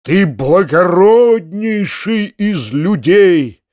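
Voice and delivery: slow, loud exclamation; crying out. A narrator's reading. Uncle coming to his senses, exclaiming to Foma. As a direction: burst out in awe. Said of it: "вскричал".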